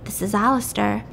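understated chilly self-introduction; cold voice. Retold or imitated. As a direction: imitate a cold man answering. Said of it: "it's just that cold voice again".

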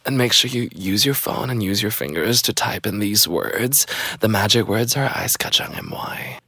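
soft breathy telemarketer pitch; sexy telemarketer voice. Pretend. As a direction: whisper the sales line seductively. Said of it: "it sounds like I'm crying for help".

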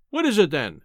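london policeman. Acted. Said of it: "he insisted".

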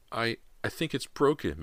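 high, strained, halting voice; through gritted teeth. A narrator's reading. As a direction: force it out through pain. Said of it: "said through gritted teeth".

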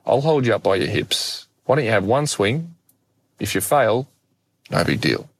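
imitated dad, lightly lifted coaxing; calm coaxing. Dad coaxing his son into one swing, calmly. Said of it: "looks at me very calmly".

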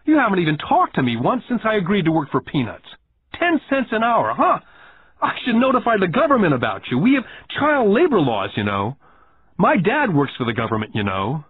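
put-on a child puffing up with threats; indignant young boy. Boy threatens Rich Dad.

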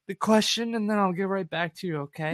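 high, loud, nervous stammer; flustered rookie. Retold or imitated. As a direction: stall the client with a panicky high voice. Nervous newbie agent stalling client.

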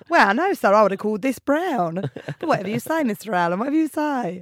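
a servant humouring Mister Allen, loud and mock-deferential; mock servile servant.

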